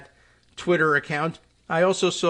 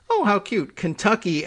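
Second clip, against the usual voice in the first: higher-pitched mock cooing; mock-charmed reaction; 5 semitones higher than usual. Imagining a viewer charmed by the older gentleman, mock-charmed. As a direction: lightly act out being charmed by something cute.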